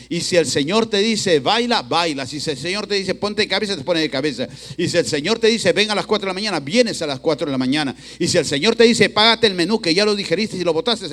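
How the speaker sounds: loud, forceful sermon delivery; emphatic preaching. Real, not acted. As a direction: press each phrase on the congregation.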